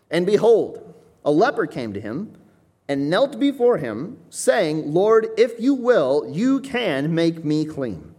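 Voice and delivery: slow, measured reading of the verse; scripture reading. Acted. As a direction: read the verse with weight. Reads scripture aloud.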